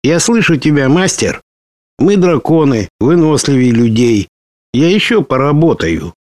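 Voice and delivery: tired, slightly slurred dragon voice; words a little tangled from exhaustion; slurred speech. Acted. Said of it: "У тебя язык заплетается".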